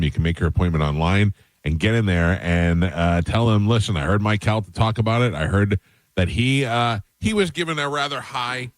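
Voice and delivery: upbeat radio sponsor read, pushing the listener to act; live ad read. Acted. Radio host pitching a heart scan sponsor to listeners, persuasive ad read.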